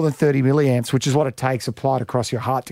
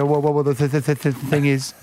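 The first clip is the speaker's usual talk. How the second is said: stutter. Acted. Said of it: "he goes in with a stutter".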